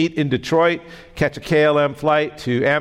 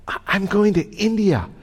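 raised high, pushing back on the agent; pitched-up mock protest; insistent protest; 7 semitones higher than usual. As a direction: insist you must get to India.

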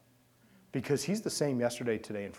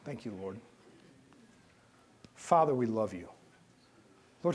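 steady earnest pastoral prayer; closing prayer. Real, not acted.

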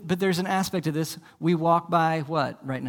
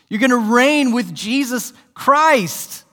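the repeat lifted higher and louder, ringing out; rising proclamation; 6 semitones higher, 5 dB louder, slower than usual. Real, not acted. Preacher proclaiming to the congregation, louder and higher. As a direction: proclaim it louder the second time.

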